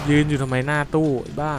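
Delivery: annoyed tense outburst; exasperated scold. Real, not acted. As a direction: yell at him for dawdling. Scolding character standing still.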